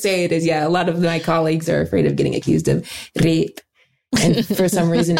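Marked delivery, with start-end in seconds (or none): 3.2-3.6 thick comic Scottish accent; Scottish accent, drawn out on "rape". Shown as a demonstration. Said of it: "say it in a thick Scottish accent".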